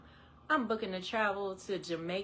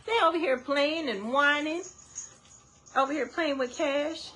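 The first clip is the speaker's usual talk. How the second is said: words pushed out through laughter, higher and louder; laughing while talking; 5 semitones higher, 3 dB louder than usual. Real, not acted. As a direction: keep laughing as you get the words out.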